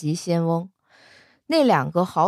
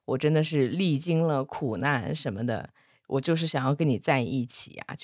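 playing pitiful; 5 semitones lower than usual. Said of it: "许仙在那装可怜".

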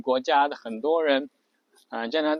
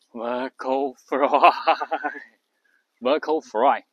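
slow, louder creaky fry with the last word stretched; vocal fry; 6 dB louder, much slower than usual. Shown as a demonstration. Teacher demos lengthened fry on the last word. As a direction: stretch the final word into a rattle. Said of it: "最后一个词拉长音".

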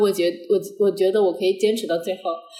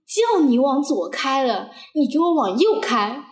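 slow, higher-pitched retold reprimand; mock angry scolding; 5 semitones higher, slower than usual. Instructor scolds the learner for turning the wrong way, mock angry. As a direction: imitate the instructor drawing out each complaint. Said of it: "他就在那个车上一直骂我，".

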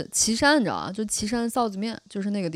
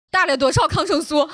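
half-shouted question, higher and louder; loud repeat; 7 semitones higher, 6 dB louder than usual. Retold or imitated. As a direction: bark the question back loud and sharp. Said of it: "声音很大。".

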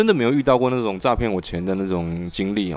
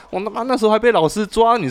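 cheerful; 12 semitones higher, 4 dB louder than usual. Retold or imitated. Her own retold cheerful chat.

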